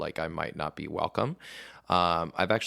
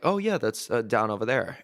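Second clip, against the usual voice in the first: much higher, mock-helpful voice; lightly hammed-up cheerful direction-giver; imitating straight couple; 5 semitones higher, 4 dB louder than usual. Couple pointing him toward the gay bar, mock-helpful and higher.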